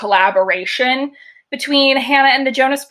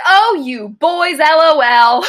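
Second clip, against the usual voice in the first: higher, slower, louder mock delivery of a dad's text slang; imitated line reading; 4 semitones higher, 5 dB louder, slower than usual. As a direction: imitate an awkward dad trying out slang, pitched up and drawn out. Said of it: "And that's how he says it".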